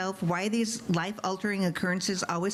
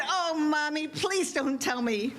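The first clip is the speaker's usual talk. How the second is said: put-on little girl; 7 semitones higher, slower than usual. Daughter voiced in a story.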